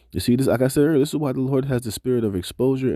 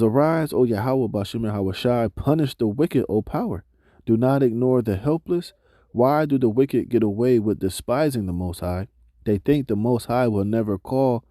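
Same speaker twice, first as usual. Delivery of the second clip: scripture reading. Acted. Reads scripture passage aloud.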